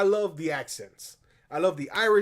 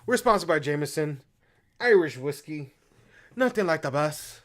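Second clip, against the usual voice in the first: light Irish brogue ad read; Irish accent; 5 dB louder than usual. Pretend. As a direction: sell the whiskey in an Irish lilt. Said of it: "I did an Irish accent or a Scottish accent".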